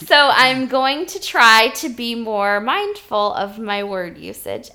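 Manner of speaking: slow, measured robot voice. Pretend. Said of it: "I'm going to talk like a robot".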